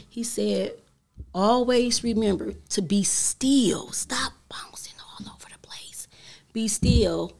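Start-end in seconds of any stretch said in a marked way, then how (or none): 1.3-7.3 hushed and deliberate, imitating her father; retold hushed advice. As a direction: drop into a whisper, as a dying father advising. Voices her dying father's last advice.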